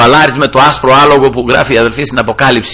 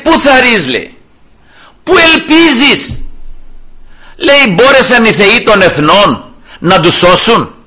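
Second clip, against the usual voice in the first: raised pitch, drawn-out challenging questions; taunting challenge; 5 semitones higher, slower than usual. Acted. Enemy king taunts Hezekiah by letter, scornful challenge. King's threatening letter acted out.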